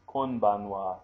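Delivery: konbanwa with a careful n before the b; clumsy konbanwa. Shown as a demonstration. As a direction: pronounce konbanwa stiffly, keeping the n. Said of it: "You don't say".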